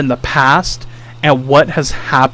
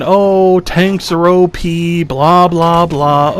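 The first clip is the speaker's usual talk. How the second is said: mock complaint; 3 semitones higher, slower than usual. Mimicking players who blame tanks for their deaths, mock complaint. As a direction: imitate whiners, slowing on the complaint. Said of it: "what do they blame it on?".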